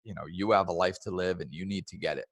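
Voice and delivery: loving. Shown as a demonstration. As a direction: gently ask for patience. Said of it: "coming from a place of love".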